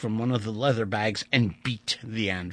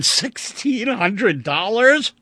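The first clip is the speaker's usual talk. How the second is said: dismayed counting; 11 semitones higher, 7 dB louder, slower than usual. Acted. Vandeleur counts his money, weeping.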